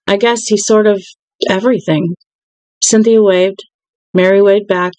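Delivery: steady read-aloud of a novel, calm and even; story narration. Acted. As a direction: read the book aloud to your viewers. Reads novel aloud to viewers.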